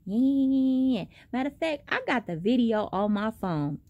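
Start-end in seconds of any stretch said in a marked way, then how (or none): 0.1-1.1 high, mocking sing-song nah; imitating the girl yelling back. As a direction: mimic her yapping, higher and taunting. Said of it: "she's still yelling".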